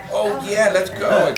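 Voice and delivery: imitated sudden eagerness. Retelling how he agreed once Julie Andrews was in, mock eager. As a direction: act out jumping at the offer, loud and high. Acting out actor's sudden change of mind.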